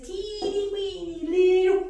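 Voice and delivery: high, stretched words for tininess; high-pitched baby-talk emphasis; teeny-weeny squeal. Retold or imitated. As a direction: squeak out how tiny it is. Mimes baby snake's tiny size.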